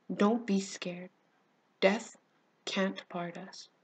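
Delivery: slow, gentle comfort; smiling reassurance. Acted. Friend holding her hand under explosions, smiling reassurance. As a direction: reassure slowly, with a small pause after "Death". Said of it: "told me, smiling".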